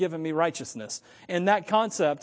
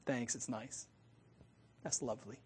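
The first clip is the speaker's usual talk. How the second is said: much softer, lower, limp thanks; softer and lower, a disappointed gift receiver; unenthused thanks; 6 semitones lower, 15 dB quieter than usual. Retold or imitated. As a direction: mumble it like a gift you didn't want. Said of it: "unless it gets opened like this".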